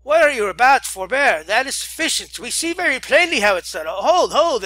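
loud, high "Hold, hold!" shouts; alarmed shouting. Acted. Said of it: "cried a dozen voices".

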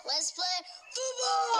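drawn-out eager yell; shouting out. Real, not acted. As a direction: call everyone to the game. Kid calls start of game.

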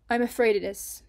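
whispered admission, heavy with regret; sorry, hushed whisper; regretful whisper. A narrator's reading. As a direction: breathe it out like a guilty confession. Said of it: "her voice heavy with regret".

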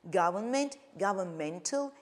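Government stressed on GOV, governmental stressed on MEN; stress contrast. Shown as a demonstration. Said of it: "you see the difference in pronunciation, stress".

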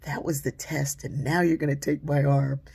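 put-on frightened child protest. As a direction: plead against the nurse in alarm. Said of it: "And I said".

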